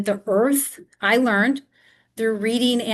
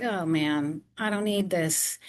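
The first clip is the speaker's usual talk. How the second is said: weary groan; 2 semitones lower, 5 dB quieter than usual. Retold or imitated. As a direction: sigh it out like you're done with everything. Retold own exasperation.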